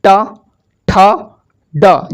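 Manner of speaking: ट, ठ, ड each spoken alone, tongue curled back; teacher sounds out ट, ठ, ड one at a time; slow recital of the letters. Shown as a demonstration. Teacher tells students to say ट, ठ, ड, sounding each out. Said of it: "बोलिए".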